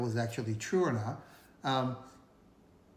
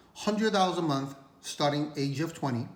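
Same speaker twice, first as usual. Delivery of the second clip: talking with food in mouth; mouth full. Real, not acted. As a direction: speak through a mouthful. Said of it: "Sorry if I have food in my mouth".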